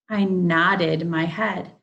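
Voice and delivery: nodded said slowly and loudly, with a clear id; teacher models nodded with a slow id ending; slow model sentence. Shown as a demonstration. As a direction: draw out I nodded my head for the class. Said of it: "There's that id sound".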